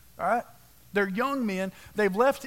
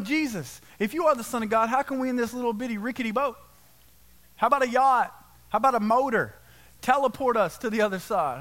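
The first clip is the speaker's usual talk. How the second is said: frustrated complaint; 3 semitones higher than usual. Retold or imitated. Frustrated disciples demanding Jesus.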